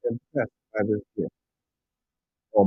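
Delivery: ordinary talk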